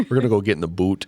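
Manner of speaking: quick mock Canadian; Canadian accent. Shown as a demonstration. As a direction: joke in a put-on Canadian accent. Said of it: "go all Canadian".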